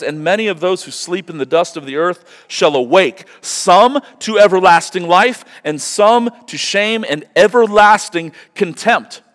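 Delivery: high, loud preached reading; fervent scripture reading. Acted. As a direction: proclaim the passage with conviction. Reads Daniel.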